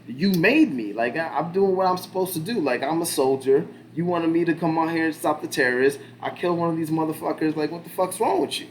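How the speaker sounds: high, loud exasperated outburst; a retold soldier yelling back at his critics; mock angry rant. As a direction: rant at them like you've been wronged.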